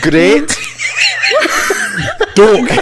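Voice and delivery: exaggerated Scottish "gret dook" for "Great duck"; Scottish accent. Shown as a demonstration. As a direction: model "Great duck" as a Scot, laughing midway. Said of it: "Here we go".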